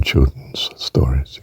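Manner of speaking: whispered aside. Real, not acted.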